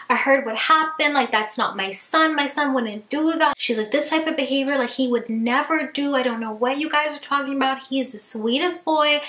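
high-pitched mock panic, defending her son; a hammed-up frantic mother who won't hear it; retelling the mom's high, frantic denial; imitating frantic mom. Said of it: "and she's frantic".

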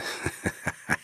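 a breathy, suggestive chuckle; suggestive laugh. A narrator's reading. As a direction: laugh knowingly, almost without voice. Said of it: "anzüglich lachte". (anzügliches Lachen)

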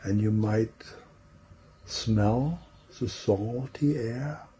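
unhurried meditation voice with long pauses; guided imagery. Real, not acted. Trainer guiding a group into relaxing, in a calm imagery voice. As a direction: lead listeners gently through the scene, leaving space between phrases.

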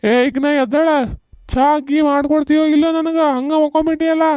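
put-on bossy drunk calling for tea; drunk husband. (ಕುಡುಕ ಗಂಡನ ಗದರಿಕೆ)

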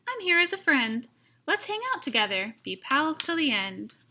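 light peep. Acted. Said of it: "Mouse peeped".

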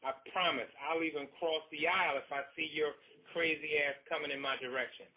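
loud, high, stern warning. Acted. Husband pinning his wife down, a loud stern warning. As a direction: lay down the law. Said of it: "he warned".

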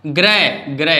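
"ग्रे" with the R after G sounded; R pronounced. Shown as a demonstration. Teacher shows R before a vowel, "ग्रे" with R sounded. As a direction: voice the R clearly in "ग्रे". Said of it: "यहाँ आर आप बोल लो".

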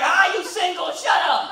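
heckler yell. Retold or imitated. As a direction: jeer at him like a heckler. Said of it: "he's like".

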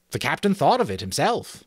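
high, piping explanation; soothing sentry. Acted. Sentry telling Jack about the new password, high placating voice. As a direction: explain helpfully in a high thin voice. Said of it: "the sentry answered soothingly".

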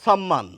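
সম্মান said as "sam-man"; dental s pronunciation. Shown as a demonstration. Teacher quoting a third variant, সম্মান as "sam-man" with s. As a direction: open সম্মান with a hissed s, not sh. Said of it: "আবার কাউকে কাউকে বলতে শুনি".

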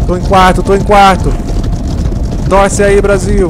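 excited. Real, not acted. Race tension.

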